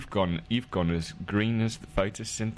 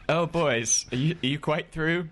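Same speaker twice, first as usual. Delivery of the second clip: mock lady client, raised pitch and volume; put-on woman's voice; 8 semitones higher than usual. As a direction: play the damsel asking if the boys are done.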